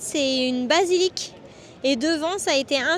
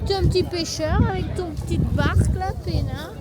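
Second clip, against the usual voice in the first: put-on joking Italian accent. Vlogger teases friend about a fisherman's boat, mild Italian accent. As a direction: paint the fisherman picture in a lazy Italian accent. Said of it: "il faut qu'on arrête de faire des accents".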